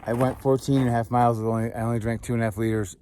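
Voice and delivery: gasping for air; out of breath. Real, not acted. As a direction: still panting from the hike. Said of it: "Sorry, I'm out of breath".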